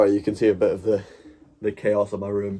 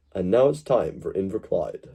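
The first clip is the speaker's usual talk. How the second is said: BBC-Akzent versucht; 2 semitones lower than usual. Shown as a demonstration. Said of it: "I've not mastered the B B C accent".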